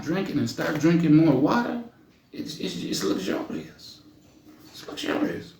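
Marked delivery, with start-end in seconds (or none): 2.3-5.5 breathy drawn-out luxurious; sultry indulgent purr. Acted. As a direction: savour the word like silk. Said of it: "Something about my skin".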